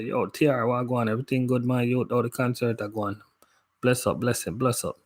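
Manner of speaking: quick Jamaican patois shout-out. Shown as a demonstration. Showing viewers his Jamaican patois switch. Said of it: "I switch it up and say".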